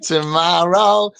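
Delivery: "Tomorrow" stretched slowly, sound by sound; drawn-out tomorrow. Shown as a demonstration. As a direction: draw out "Tomorrow". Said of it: "that sounds like tomorrow".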